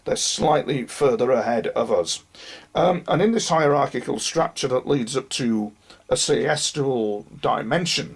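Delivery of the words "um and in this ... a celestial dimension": hoarse, strained losing voice. Real, not acted. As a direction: speak through a failing hoarse voice. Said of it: "excuse me, I'm losing my voice".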